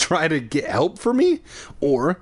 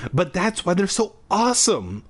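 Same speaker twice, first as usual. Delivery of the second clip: higher, eager; exclaimed; 7 semitones higher than usual. A narrator's reading. Boy eagerly exclaiming to the shopkeeper. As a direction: burst it out eagerly. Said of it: "I exclaimed".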